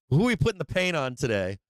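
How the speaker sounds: high, fast, gloating mock dealer; gleeful dealer. Trader imitating a desk dealer choosing who to fleece, gleeful and gloating. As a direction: ham up a greedy dealer picking his victims. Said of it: "sit at that desk and be like".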